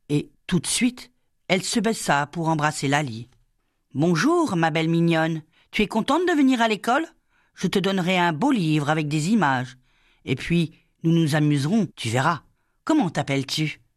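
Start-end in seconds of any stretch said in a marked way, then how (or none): 3.9-13.8 voix plus aiguë, enjouée et rapide; jeune maîtresse câline. Acted. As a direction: amadouer une petite fille timide. La sous-maîtresse cajole Laly. (la maîtresse parle à Laly, aiguë et enjouée)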